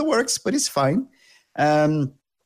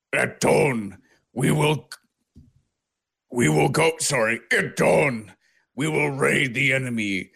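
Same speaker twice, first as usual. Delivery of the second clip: orc chieftain speech. Acted. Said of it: "a mighty orc chieftain".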